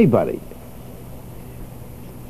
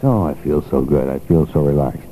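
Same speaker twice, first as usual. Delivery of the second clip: soothing self-talk; 7 semitones lower than usual. Shown as a demonstration. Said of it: "Keep telling yourself that you're relaxed".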